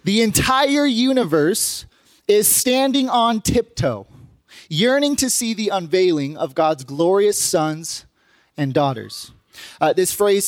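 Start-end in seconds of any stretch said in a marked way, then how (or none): 0.0-9.3 slow, deliberate reading of scripture. Acted. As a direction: read the verse out slowly, phrase by phrase. Reads scripture aloud.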